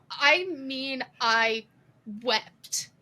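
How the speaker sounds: slow, deliberate earnest statement; pause, then land WEPT with full seriousness; sincere. Shown as a demonstration. Telling listeners she truly wept, sincere and deliberate. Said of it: "I'm not sarcastic and I'm not lying".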